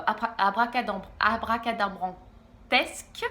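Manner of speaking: "abracadabrantesque" spelled out slowly, syllable by syllable; slow careful word. Real, not acted. Reviewer fighting through a long word, slow and careful. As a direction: stumble then land "abracadabrantesque" slowly. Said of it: "Comptez pas sur moi pour le redire".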